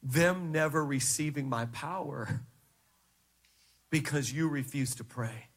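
low, soft, grave reply; voice of the Holy Spirit. Retold or imitated. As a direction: answer quietly and deep, pausing for weight. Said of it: "the Holy Spirit spoke to me and he said".

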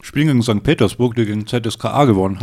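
talking with a mouthful of chocolate; words round a bite of food; mouth full. Real, not acted. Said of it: "Du sprichst echt mit vollem Mund".

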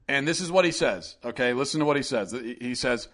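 ordinary delivery

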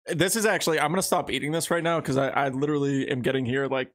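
talking with a burning mouth; words pushed out past spicy heat; mouth on fire. Real, not acted. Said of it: "my mouth is on fire".

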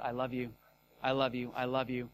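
low, soft voicing of God; tender imitation. Preacher voicing God's simple words to him, tenderly. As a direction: say it gently and low, as tender reassurance.

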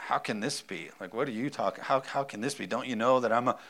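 doubting Zechariah. Pretend.

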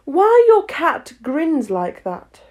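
timid. A narrator's reading. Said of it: "a little timidly".

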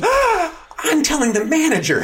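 very high, loud, whiny laughing threat; mock tattletale. Woman at the bank threatening to get the manager, very high and loud. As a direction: play her as a wounded tattletale.

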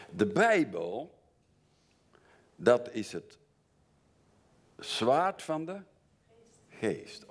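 de Bijbel slow and loud, climbing high on zwaard; ringing proclamation. Real, not acted. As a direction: proclaim it slowly like a battle cry. Preacher proclaims Bible as sword. (langzaam en luid verkondigd, hoog op zwaard)

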